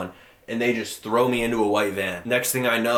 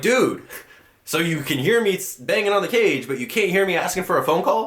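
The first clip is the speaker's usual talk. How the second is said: retold angry yell; 8 semitones higher than usual. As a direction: yell it through the bars, fed up. Banging on cage, yelling at guard.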